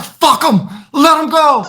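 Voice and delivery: very high mock-desperate yelp; acted panicked cry. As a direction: squeal it like a fleeing coward. Acts out friend abandoning the victim.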